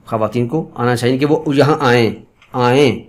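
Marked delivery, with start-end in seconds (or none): 1.3-3.0 آئیں as 'aa-en' with nasal 'ay'; subjunctive 'e' ending. Shown as a demonstration. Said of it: "ان کو آنا چاہیے". (آئیں میں 'اے' کی غنہ آواز)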